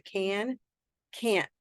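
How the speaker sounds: "can" then "can't" with its T stopped; pronunciation contrast. Shown as a demonstration. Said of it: "Can you hear the difference?".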